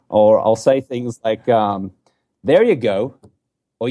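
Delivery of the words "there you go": light American-accented encouragement; teasing American impression; mock American accent. Shown as a demonstration. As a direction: imitate an American saying it with strong Rs. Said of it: "this is how Australians mock".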